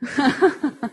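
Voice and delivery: short amused laugh; a quick embarrassed chuckle; light laugh. Real, not acted. Laughs after apologising for accent.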